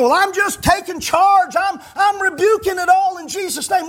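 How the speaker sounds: high-pitched parody of bossy praying; mock authority. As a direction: imitate someone proudly taking charge in prayer. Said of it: "You're speaking with authority".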